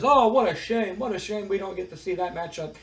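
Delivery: lightly sarcastic interviewer. Retold or imitated. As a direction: lay the fake pity on thick. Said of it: "Mean Gene kinda sarcastically says".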